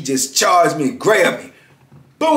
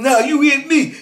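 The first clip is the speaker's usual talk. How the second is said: very high, petulant retort; mock whine; 11 semitones higher than usual. Inmate refusing to let him up, high mock complaint. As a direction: whine it like the wronged party.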